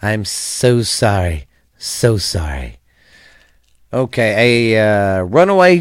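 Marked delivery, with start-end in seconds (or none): 0.0-1.5 apologetic. Real, not acted. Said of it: "And if I have". 1.8-2.8 soft apologetic. Real, not acted. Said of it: "And if I have".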